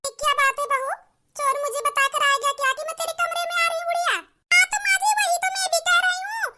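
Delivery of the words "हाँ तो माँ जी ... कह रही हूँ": higher, louder sarcastic sing-song; mock agreement. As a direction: needle her with fake eager agreement. Mocking mother-in-law about thief.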